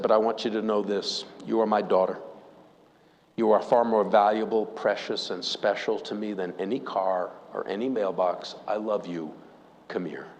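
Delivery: understated tender dad; calm and tender. Retold or imitated. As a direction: reassure her gently, lowering the voice. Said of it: "he calmly walks over".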